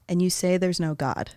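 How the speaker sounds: breathy whisper, barely voiced. Real, not acted. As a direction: whisper the phrase so only lips show. Secret phrase under headphones.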